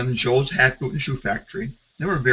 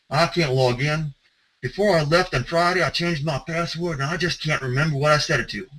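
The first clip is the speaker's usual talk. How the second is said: Southern drawl, a bit higher, hoarse like a sore throat; Ray Watson Southern drawl; 3 semitones higher than usual. Retold or imitated. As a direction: fake a sick Southern guy on a bad phone line. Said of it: "my best Southern drawl imitation of Ray Watson with a sore throat over a bad phone connection".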